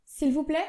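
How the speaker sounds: s'il vous plaît with plaît rising up; rising question tune. Shown as a demonstration. Calling the waiter, rising s'il vous plaît. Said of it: "Vous entendez, ma voix monte".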